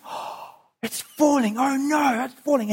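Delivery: horrified onlookers as it starts to fall; mock alarm. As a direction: watch disaster begin, half under the breath. Crowd watches the ark falling.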